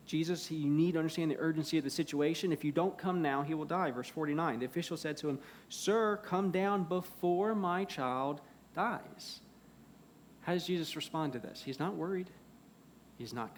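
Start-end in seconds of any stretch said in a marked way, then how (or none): 0.6-3.9 rushed, louder urgent appeal; frantic. Acted. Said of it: "He's, he's frantic with". 5.7-9.4 raised, drawn-out urgent appeal; frantic plea. Acted. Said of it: "He's, he's frantic with".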